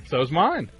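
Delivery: ordinary talk, nothing marked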